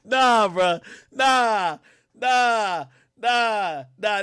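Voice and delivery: loud, high, disbelieving nahs; stunned nah. Real, not acted. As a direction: keep shaking it off in shock. Stunned reaction to text messages.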